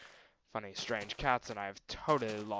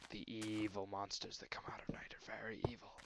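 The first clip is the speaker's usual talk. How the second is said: whispered evil warning; spooky whisper; 6 dB quieter than usual. Pretend. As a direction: hush it like a ghost story. Spooky talk about night monsters.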